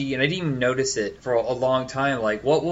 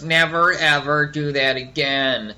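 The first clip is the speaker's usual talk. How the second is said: slow, mimicking parody; mock white-guy voice; slower than usual. Guy behind mimicking him, mock white-guy voice. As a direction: echo it slowly, making fun of the speaker. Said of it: "making fun of my white guy voice".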